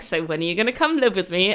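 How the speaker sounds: quick, offhand invitation; casual. Retold or imitated. Host as Frodo inviting Sam to live with him, casual. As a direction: toss it out as if it hardly matters. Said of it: "casual way".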